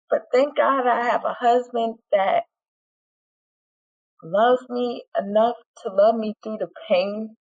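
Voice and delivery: real emotion rising in the throat, holding back tears; close to tears. Real, not acted. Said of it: "Whew, I'm about to cry".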